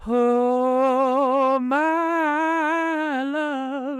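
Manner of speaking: long, high swooning sigh of love; hammed-up movie swoon; swooning romantic. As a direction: melt into the romance. Voicing romantic film moment.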